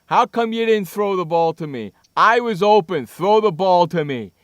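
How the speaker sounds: hammed-up grievance, hard on each opening word; mocking complaining player. Mocking the player who didn't get the ball, exaggerated complaint. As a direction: imitate a sulking receiver demanding the ball. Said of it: "he doesn't think like that".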